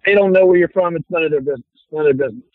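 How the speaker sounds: put-on light New York tough-guy accent. Actor brushing off questions about his origins, New York accent. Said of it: "I play guys from New York".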